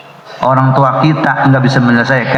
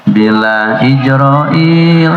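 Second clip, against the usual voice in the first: slowly; much slower than usual. Retold or imitated. Wife teasing husband gently, very slow and drawn out. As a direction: stretch every syllable like a secret. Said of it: "Pelan-pelan ibu bilang".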